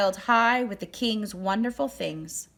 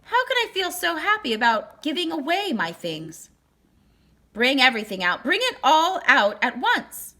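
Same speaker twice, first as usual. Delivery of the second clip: rising from eager wonder to a louder, higher call; building to a happy shout of command; overjoyed king calling for everything at once; joyful cry; 6 semitones higher, 5 dB louder than usual. A narrator's reading. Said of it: "he cried".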